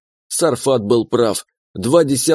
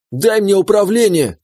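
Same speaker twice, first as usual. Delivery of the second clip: yelling demand; 7 semitones higher than usual. A narrator's reading. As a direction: howl to be given control. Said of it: "завопил в моей голове имба". (громкий вопль с требованием)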